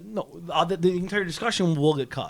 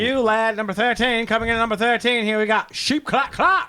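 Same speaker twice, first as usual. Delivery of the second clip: announcer voice; 3 semitones higher than usual. Acted. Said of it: "I love the voice".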